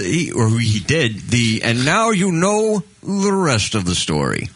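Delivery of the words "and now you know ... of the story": Paul Harvey impression. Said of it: "He's the guy who does the".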